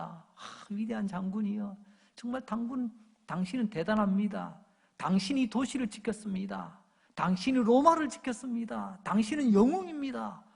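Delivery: acted acclaim building from hushed awe; mild mock cheering, growing line by line; imitated crowd cheering. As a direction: hail a victorious general, rising in pitch toward the end. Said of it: "막 이렇게 환호를 지를 겁니다".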